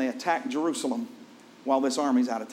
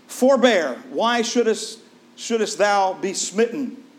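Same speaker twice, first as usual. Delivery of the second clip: arrogant threat; 5 semitones higher, 5 dB louder, slower than usual. Retold or imitated. Arrogant king threatens prophet.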